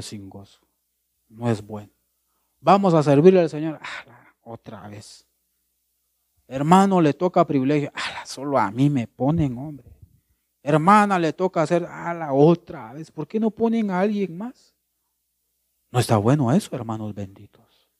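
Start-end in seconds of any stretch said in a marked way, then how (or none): 3.8-14.7 mock complaining church member, sulky and reluctant; mock reluctant believer grumbling at being picked; grudging whine. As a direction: whine like someone who doesn't want the job.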